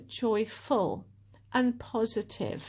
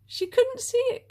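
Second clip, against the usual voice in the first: "couldn't" pushed much higher and louder; louder emphatic repeat; 14 semitones higher, 5 dB louder than usual. Real, not acted. Telling viewers her friend missed the point, high and emphatic. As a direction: insist on "couldn't", up high and loud.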